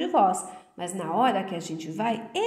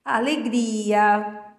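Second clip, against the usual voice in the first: alegria; 4 dB louder, much slower than usual. Shown as a demonstration. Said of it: "indica, gente, sentimentos".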